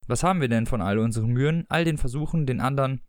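measured, even reading-aloud voice; story narration. A narrator's reading. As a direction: read the excerpt like an audiobook narrator. Reads the book excerpt aloud.

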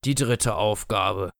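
langsam und tiefer gedehnt; nachdenklicher Tod. Acted. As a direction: zieh es langsam, als ob du grübelst. Der Tod überlegt. (der Tod überlegt langsam laut)

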